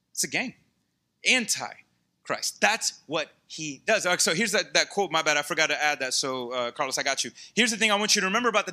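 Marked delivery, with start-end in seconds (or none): 1.3-2.6 "anti-Christ" slow, broken after "anti"; drawn-out "anti", separate "Christ"; emphatic split word. Shown as a demonstration. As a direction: stretch "anti", pause, then land "Christ". Preacher repeats the key word split.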